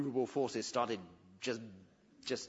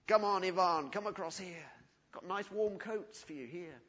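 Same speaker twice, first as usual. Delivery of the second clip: mock calling across; 4 semitones higher, 4 dB louder than usual. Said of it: "the German army calling to the Russians".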